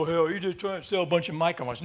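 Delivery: fast, scoffing imitation; lightly voiced dismissive ham, rushed; mock skeptic. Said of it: "a lot of guys go".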